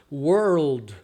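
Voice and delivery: "World" as one joined syllable; easy correct pronunciation. Shown as a demonstration. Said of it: "Olha só o tanto que é fácil".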